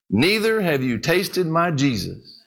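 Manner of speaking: slow, calm reply to the scholar; calm punchline. Retold or imitated. Old preacher calmly answering the scholar, slow and steady. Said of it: "and said calmly".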